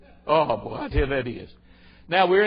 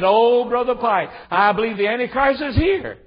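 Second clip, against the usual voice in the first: imitated excited woman; 7 semitones higher, 6 dB louder than usual. Church woman breaking news to her pastor, high, loud mock excitement. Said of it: "a woman told me the other day".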